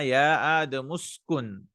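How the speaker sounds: "آدم اسكن" linked as adamuskun; words run together. Shown as a demonstration. Teacher showing students the reading, "آدم اسكن" joined as adamuskun. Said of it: "We'll join it here".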